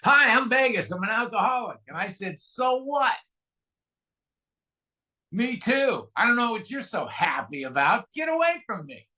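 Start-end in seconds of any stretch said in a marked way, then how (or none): 0.0-1.8 bright, louder, higher hello; cheerful greeting. Retold or imitated. Vegas runs up to the newcomer, cheerfully greeting him. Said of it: "and he goes". 2.4-9.1 higher, snippy get away from me; hostile brush-off. Retold or imitated. Angry newcomer snaps at the cheerful greeter, a mild mock snarl.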